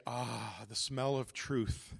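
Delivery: slow, relishing "ah" after a deep breath; savoring sigh. Shown as a demonstration. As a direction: breathe out as if savoring a lovely smell. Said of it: "take a deep breath through your nose, uh, and say".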